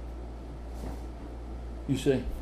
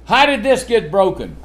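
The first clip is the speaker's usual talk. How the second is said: raised scolding parent voice; parent questioning a child; 5 semitones higher, 3 dB louder than usual. Retold or imitated. Parent asking child about messy room, mildly stern. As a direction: demand an answer from a messy kid. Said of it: "what you always ask kids".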